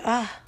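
short blissful "ah"; sigh of relief. Shown as a demonstration. Repeats the relieved sound.

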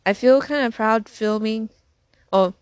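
hiccuping mid-sentence; a sudden hiccup breaks the words. Real, not acted.

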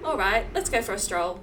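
put-on British accent. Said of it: "they all have British accents".

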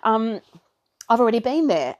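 puffing while talking; breathless restart; out of breath. Real, not acted. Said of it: "hear me puffing and panting".

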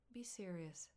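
soft unvoiced whisper. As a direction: breathe it, barely voiced. Rachel responds, unvoiced.

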